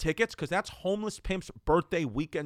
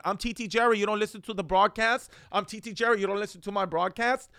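higher-pitched mock yell; imitated yelling; 5 semitones higher, 3 dB louder than usual. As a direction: act out Jerry hollering at the parents. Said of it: "he was just yelling".

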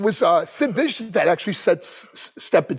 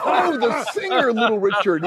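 laughing realization; 6 semitones higher than usual. Retold or imitated. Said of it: "I go".

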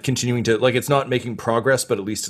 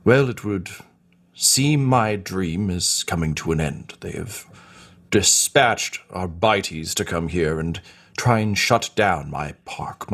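John Hammond speech; 3 semitones lower than usual. Acted. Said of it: "this John Hammond speech".

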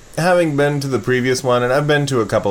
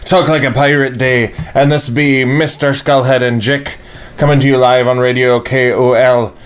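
put-on pirate accent; 4 dB louder than usual. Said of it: "terrible pirate accents".

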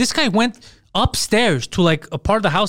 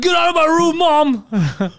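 high mock teenage yell at mom; yelling back; 9 semitones higher, much slower than usual. Son yelling his mom out of the room, hammed up. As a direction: holler it like a cornered teen.

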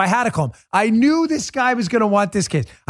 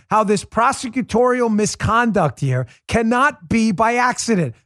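usual speaking voice

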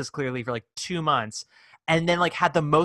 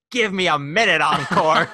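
mock dying Sylvia; 2 semitones higher, 5 dB louder than usual. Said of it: "looks up and goes".

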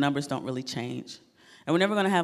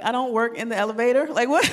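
retold outrage; 7 semitones higher, 5 dB louder than usual. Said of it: "I was like".

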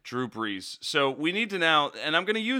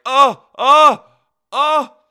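shrill-free high, loud startled oh oh; startled high cry of shock; shocked high yelp; 12 semitones higher, 16 dB louder, much slower than usual. Retold or imitated. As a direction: yelp it out in disbelief. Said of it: "I elicited a sound like".

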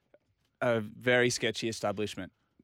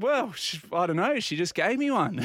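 flustered laugh; 9 semitones higher, 3 dB louder than usual. Retold or imitated. Retelling flustered answer, laughing.

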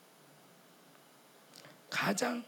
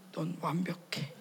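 slow, hushed "you're perfect"; a husband's quiet, resigned answer; whispered deadpan reply; 3 semitones lower, 6 dB quieter, slower than usual. Retold or imitated. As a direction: say it slowly under the breath, giving up.

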